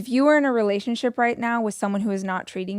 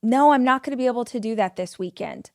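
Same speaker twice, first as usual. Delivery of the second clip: firm refusal; faster than usual. Shown as a demonstration.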